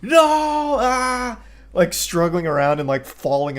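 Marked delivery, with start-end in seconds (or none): 0.0-1.4 high, hammed-up demon shrieking; mock demon wail. Demon flailing as the mother scolds it, high mock shrieks. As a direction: wail like a demon being driven out. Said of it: "And the demon's like".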